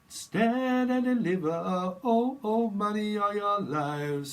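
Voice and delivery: high, loud, slow robber's demand; hammed-up highwayman. Medium acts a highwayman robbing travellers, high and loud. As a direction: bellow it like a masked highwayman.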